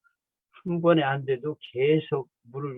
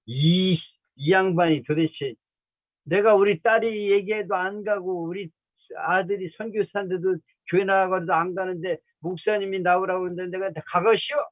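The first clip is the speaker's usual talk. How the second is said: higher-pitched, lightly imitated Chungcheong accent; 7 semitones higher than usual. Stubborn mother refusing the visiting pastor, imitated in Chungcheong accent. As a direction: protest in a mock Chungcheong accent. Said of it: "이분도 충청도야".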